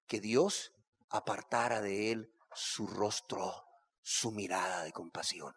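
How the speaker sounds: quiet, intimate preaching; hushed preaching. Acted. Preacher softly describes the king's anguish, hushed. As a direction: draw the congregation in, softly.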